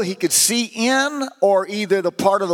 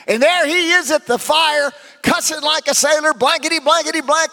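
raised, higher preaching voice; 7 semitones higher than usual. Acted. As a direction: build it up from the pulpit. Preacher at full force.

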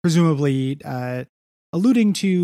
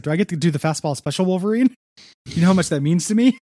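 excited, higher and faster plea; eager; 4 semitones higher than usual. Retold or imitated. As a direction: beg eagerly like a kid. Eager character quote, rising pitch.

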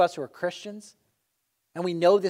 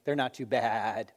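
sheep bleat joke; 6 semitones lower than usual. Acted.

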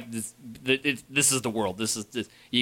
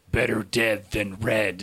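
robot voice; slower than usual. Retold or imitated. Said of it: "he just says all these".

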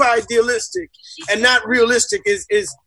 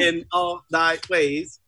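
slow, low robotic monotone; 4 semitones lower, slower than usual. Shown as a demonstration. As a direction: drone it out like a robot. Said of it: "That sounded like a freaking robot".

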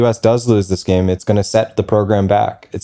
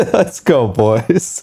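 higher, excited bro chant; frat bro hype; 4 semitones higher, much slower than usual. Real, not acted. Hype chant after laugh.

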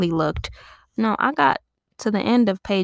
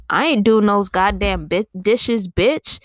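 put-on louder defiant kid refusing chores; defiant insult; 5 dB louder, slower than usual. Kid defying mom about the dishes, louder and defiant. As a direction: punch out the bitch at the end. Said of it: "But as soon as you say".

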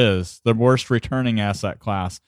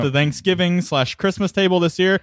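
booming tipsy uncle, much higher; drunk uncle voice; 7 semitones higher than usual. Pretend. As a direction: brag like the tipsy uncle at dinner. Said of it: "anything that the drunk uncle will say".

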